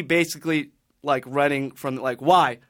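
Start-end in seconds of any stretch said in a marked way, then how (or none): 2.2-2.6 loud, high, pleading whys; frantic yelling. Retold or imitated. Man chased by attackers pleads loudly why. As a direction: beg them to tell you why, loudly. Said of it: "Like, asking them why".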